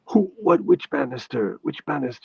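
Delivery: searching for the culprit banister; a nanny fussing over a hurt child; mock Jamaican nanny. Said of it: "she said".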